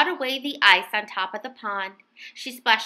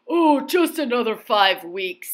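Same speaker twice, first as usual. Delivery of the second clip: sleepy pleading bear; half-asleep whine, lightly voiced; mild sleepy plea; mild begging. A narrator's reading. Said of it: "he begged".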